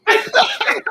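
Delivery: very high redneck squeal; imitated redneck. Redneck recognizes him at the casino, high squeal. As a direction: squeal the name with a twang. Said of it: "he called me Panky".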